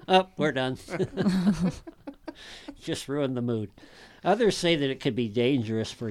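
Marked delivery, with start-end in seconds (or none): 0.0-0.8 laughing. Real, not acted. Laughing at ruined mood. 0.8-2.3 laughing. Real, not acted. Laughs at ruined mood.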